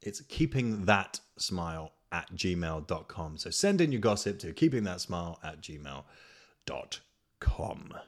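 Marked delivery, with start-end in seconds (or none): 0.0-3.4 slow and clear. Shown as a demonstration. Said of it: "no, no, sorry". 6.7-7.9 whispered aside. Real, not acted. Whispered end of email.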